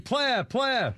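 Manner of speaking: high-pitched imitation of a drowning man's yell; joking high cry for help; mock yelling. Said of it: "he kept yelling".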